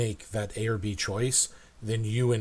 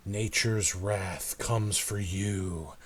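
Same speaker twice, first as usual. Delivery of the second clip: solemn prophecy; 3 semitones lower than usual. Acted. Game master speaking for white-eyed gnome, lightly solemn prophecy. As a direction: intone it as a grave warning.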